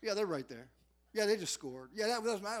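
proud parent. Retold or imitated. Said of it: "commercial question answered".

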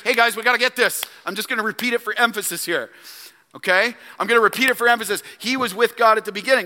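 lightly voiced John, fast and chatty; mock casual John. Preacher voicing John to the congregation, quick and casual. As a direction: rush it like a buddy explaining. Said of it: "He's like".

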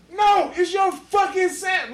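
high, insistent retold shout; aggressive. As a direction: imitate an irate counter guy insisting. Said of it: "he gets aggressive as fuck".

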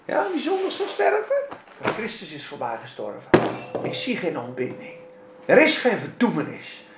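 ordinary talk

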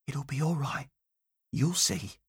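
soft, hushed comfort through tears; tearful whisper. Acted. Mother soothing her son, soft and tearful. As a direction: murmur it gently to soothe him. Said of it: "She kissed him and whispered".

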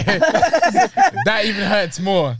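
laughing. Real, not acted. Laughing slowly.

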